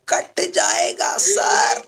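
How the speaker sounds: high, slow answer for the students; voicing the class answer. Shown as a demonstration. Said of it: "बोलो, क्या होगा?".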